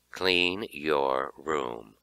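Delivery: mother ordering her son to clean up; demanding. Acted. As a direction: lay down the law slowly. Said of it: "she demanded".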